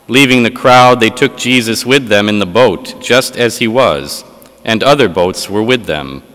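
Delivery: solemn liturgical reading voice; Gospel reading. Acted. Proclaims the Gospel at Mass.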